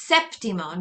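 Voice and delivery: "séptimo" with emphasis on the accented sép; stress on first syllable. Shown as a demonstration. Teacher introduces seventh, "séptimo" stressed on sép. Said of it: "that's also where you put your emphasis".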